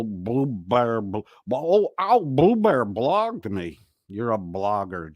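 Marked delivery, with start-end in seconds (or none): 1.5-3.8 mock hurt child. Mock hurt kid line.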